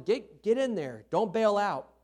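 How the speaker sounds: loud, high sideline shout; coach yelling. Retold or imitated. Coach yelling at a kid to stay in, loud. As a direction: urge the batter on like a coach. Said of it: "The coach is gonna be yelling at them".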